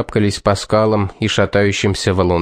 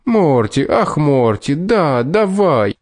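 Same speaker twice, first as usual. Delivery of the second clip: higher, slow mocking coo; mock chirping swoon; 4 semitones higher, slower than usual. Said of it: "защебетал Роб".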